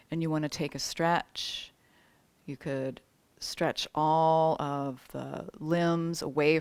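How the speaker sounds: unhurried yoga teacher settling the class; spaced phrases with long, restful pauses; guided meditation. Real, not acted. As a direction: guide them gently toward rest.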